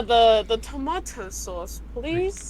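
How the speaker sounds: put-on British request, rising on please; lightly imitated British customer; mock British accent. Teller imitating a customer's sauce order, British accent. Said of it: "We're all gonna be British".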